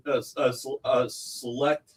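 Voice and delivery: stumbling, repeating the first sound; tongue-tied false starts; stuttering. Real, not acted. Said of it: "Wow, I'm stuttering".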